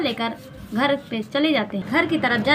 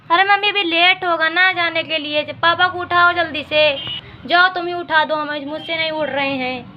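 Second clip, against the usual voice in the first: put-on lightly higher girl's voice, pushy; impatient daughter; 3 semitones higher than usual. Daughter urging mother to wake father, a touch higher. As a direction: press mum to get dad moving.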